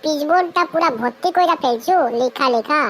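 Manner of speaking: high-pitched incredulous demand; astonished scolding. Acted. Scolding Panchu for filling the whole board, astonished. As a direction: call him out, taken aback.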